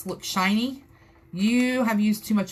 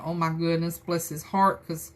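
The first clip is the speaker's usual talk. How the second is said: sarcastic; 4 semitones lower, 4 dB quieter, slower than usual. Retold or imitated. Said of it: "I'm being sarcastic and saying".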